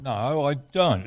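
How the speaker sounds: talking through a mouthful of chocolate; mouth full. Real, not acted. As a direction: say it round a bite of food. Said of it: "Don's got his mouth full".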